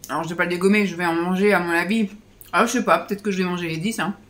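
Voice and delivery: talking with a mouth full; chewing through the words. Real, not acted. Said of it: "qui vous parle la bouche pleine".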